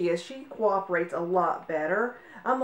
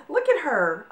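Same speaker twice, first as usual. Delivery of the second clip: laughing coo; 12 semitones higher than usual. Real, not acted. Cooing at excited puppy.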